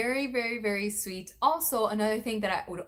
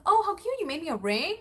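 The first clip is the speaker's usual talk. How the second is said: gushing; 9 semitones higher, 3 dB louder than usual. Retold or imitated. Retold delighted reaction.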